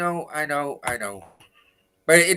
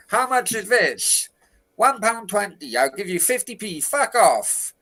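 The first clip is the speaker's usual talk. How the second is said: haggling shop dialogue; 5 semitones higher than usual. Retold or imitated. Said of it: "that old guy in the corner shop".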